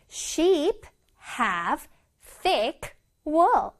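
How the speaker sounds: one word at a time with pauses; slow model reading. Shown as a demonstration. Teacher reading an example for children, word by word. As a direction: space out every word clearly.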